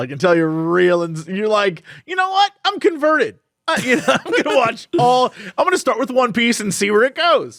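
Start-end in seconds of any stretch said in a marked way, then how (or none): 2.1-7.6 mock convert.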